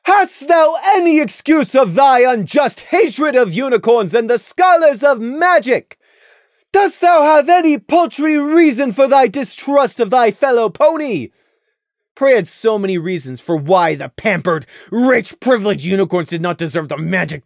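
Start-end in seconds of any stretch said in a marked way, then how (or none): 0.0-11.3 high, loud royal interrogation; imperious moon princess; stern princess Luna. A narrator's reading. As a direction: press them like a stern royal judge.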